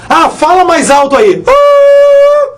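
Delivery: a sudden very high squeak on "Ah"; high-pitched joke for "mais alto"; squeaky high "Ah". Shown as a demonstration. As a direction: jump the voice way up for "alto". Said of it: "Porque alto é agudo".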